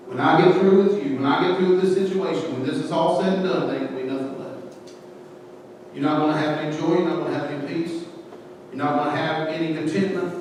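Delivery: soft, menacing taunt; taunting enemy threat. Retold or imitated. The enemy quietly gloating over the listener, low taunt. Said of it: "that's what the enemy's saying".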